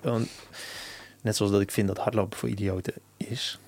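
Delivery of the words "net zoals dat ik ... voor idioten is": whispered aside. Real, not acted. Provocative aside.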